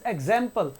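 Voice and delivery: example with a long middle vowel; example, second syllable held slowly; drawn-out vowel. Shown as a demonstration. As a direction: stretch the 'zam' of example. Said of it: "थोड़ा सा खींच रहे हैं".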